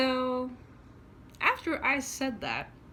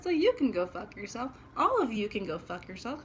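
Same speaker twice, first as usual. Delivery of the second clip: louder defiant curse with a rise at the end; retold cursing out; 3 dB louder than usual. Cursing out the nurses, loud and defiant. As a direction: fling it at all of them.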